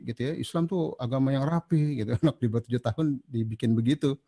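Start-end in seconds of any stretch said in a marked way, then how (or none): 0.3-2.0 lecturing scold. Retold or imitated. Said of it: "atau kadang-kadang kita marahi".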